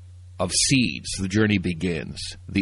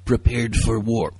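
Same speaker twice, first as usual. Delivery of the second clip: movie trailer voice. Pretend. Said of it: "I'm gonna get my best descriptive movie trailer, uh, voice".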